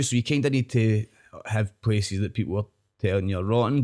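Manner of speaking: ordinary delivery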